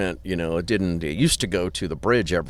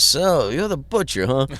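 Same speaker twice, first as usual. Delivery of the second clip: higher, drawn-out mock boss voice; imitating Alan; 6 semitones higher than usual. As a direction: slowly size someone up in a put-on voice. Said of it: "he looks at me and says".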